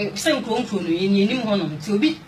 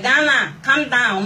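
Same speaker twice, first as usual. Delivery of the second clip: higher, louder imitation of a roll call; imitated call; 3 semitones higher, 4 dB louder, slower than usual. Retelling how the workers were summoned each morning, imitated calling out. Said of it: "na ɔmo afrɛ".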